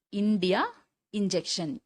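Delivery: "இந்தியா", "இன்ஜெக்ஷன்" opening on "i"; ஈ sound demo. Shown as a demonstration. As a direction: model "இந்தியா" and "இன்ஜெக்ஷன்" singly, clear "i" first. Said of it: "அப்படின்ற உச்சரிப்பு". ("இந்தியா", "இன்ஜெக்ஷன்" ஈ ஒலியில் தொடங்கி)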